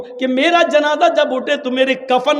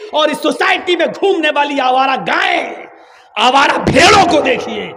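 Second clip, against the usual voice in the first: scolding shout; 4 semitones higher than usual. Real, not acted. Preacher scolds society loudly.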